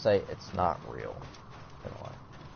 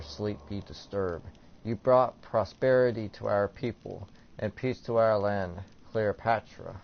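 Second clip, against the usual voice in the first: measured, ceremonial prayer reading; a little finesse. Acted. Player reading an offering to Cleopatra, with a little finesse. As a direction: recite it formally, phrase by phrase. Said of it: "say it with a little finesse".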